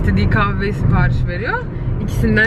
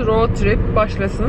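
talking while chewing gum; words round a wad of gum; slower than usual. Real, not acted. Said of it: "Sakız çiğnemekten vlog çekemiyorum".

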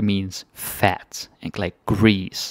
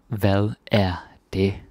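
slow demo; slower than usual. Shown as a demonstration.

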